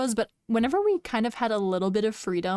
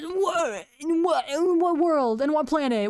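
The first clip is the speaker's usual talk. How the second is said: incredulous; 6 semitones higher than usual. Real, not acted. Incredulous at chat claim.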